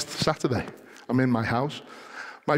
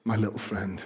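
Marty McFirefly; 3 semitones lower than usual. Acted. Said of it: "Marty McFirefly turns around and says".

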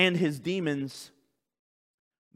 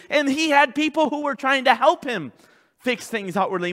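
louder, raised preaching voice; full-force preaching; 8 semitones higher, 6 dB louder than usual. Real, not acted. Pastor confessing the need for change, forceful preaching. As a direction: press each phrase home with force.

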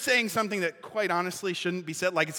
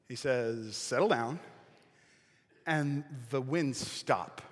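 much softer, lower, slow storytelling; hushed telling; 6 semitones lower, 6 dB quieter, slower than usual. A narrator's reading. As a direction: draw them in with a low hush over the calm. Preacher drops into hushed storytelling.

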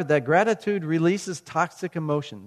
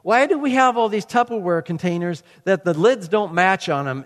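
mock-exasperated complaint, louder; retold frustration; 3 semitones higher, 5 dB louder than usual. Preacher replaying his kitchen rant over Tupperware lids, frustrated. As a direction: replay a fed-up rant at the containers. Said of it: "I was just getting frustrated".

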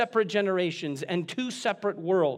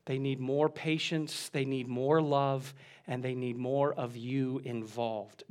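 slow, soft stress on each more; quiet pleading build; earnest plea; 4 semitones lower, 5 dB quieter than usual. Real, not acted. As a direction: lean in gently on every more. Slowed pleading list.

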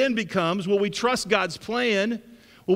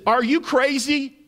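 incredulous widow; 5 semitones higher than usual. Retold or imitated. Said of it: "But she says this".

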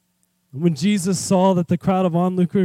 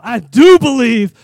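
crying out; 3 semitones higher, 5 dB louder than usual. Acted. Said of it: "The father instantly cries out".

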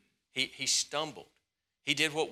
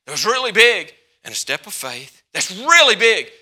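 preaching shout; 6 semitones higher, 12 dB louder than usual. Acted.

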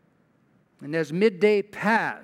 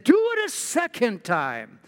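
raised, emphatic order, read aloud; prophet's command; 5 semitones higher than usual. Acted. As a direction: command them as Elijah would. Elijah orders them, read aloud.

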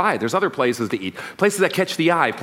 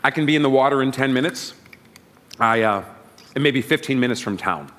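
mouth full. Real, not acted. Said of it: "I took a big bite".

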